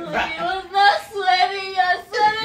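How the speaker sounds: crying and half-laughing; sobbing protest; tearful accusation. Real, not acted. Girlfriend accusing her boyfriend through tears.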